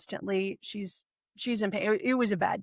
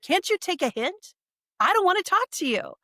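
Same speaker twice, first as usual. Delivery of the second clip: retold venomous snap, pitched higher; 9 semitones higher, 3 dB louder than usual. To her mentor on the phone, a venomous snap. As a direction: spit the words back at her with venom. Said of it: "with all the venom".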